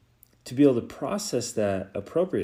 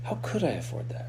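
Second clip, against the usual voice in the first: much softer, musing question; 4 semitones higher, 10 dB quieter than usual. Shown as a demonstration. Coach repeating the open question to listeners, softly. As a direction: murmur it like a thought to yourself. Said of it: "See the difference?".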